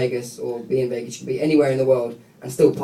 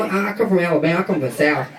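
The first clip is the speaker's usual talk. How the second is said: put-on Southern American accent; 4 semitones higher than usual. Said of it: "can you do an American accent".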